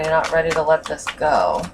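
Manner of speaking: normal talking voice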